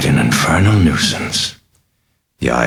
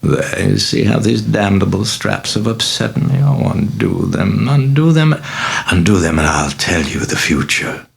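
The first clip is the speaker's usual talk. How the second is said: higher, wheedling demon voice climbing to a shriek; sinister cajoling; 7 semitones higher than usual. Acted. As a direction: coax him, rising more desperate each time. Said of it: "cajoling in that sinister voice".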